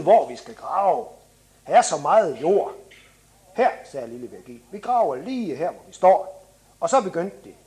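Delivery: put-on animated children's book narration; story reading. A narrator's reading. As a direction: read a children's story with lively dialogue. Reads from children's book aloud.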